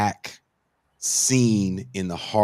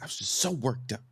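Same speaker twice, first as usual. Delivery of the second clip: hushed, half-whispered imitation; sheepish apology; 4 semitones higher, 8 dB quieter than usual. Calmed-down girl apologises to the bandleader, imitated hush. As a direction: say it small and soft, as if apologising.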